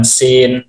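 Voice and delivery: "sin" with a plain, light s; plain s sound. Shown as a demonstration. Teacher contrasting similar Arabic letters for a learner, careful plain-s pronunciation. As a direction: say "sin" with a simple s, no h after it. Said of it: "kan beda nih".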